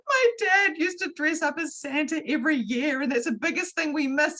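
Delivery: tearful friend. Retold or imitated. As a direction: speak up high as if near tears. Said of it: "she burst out crying".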